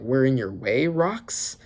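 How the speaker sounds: rising, doubtful question on Rocks. Shown as a demonstration. Whitebeard questioning Rocks, rising doubtful tone. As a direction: ask it back, unsure. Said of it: "so he's kind of questioning".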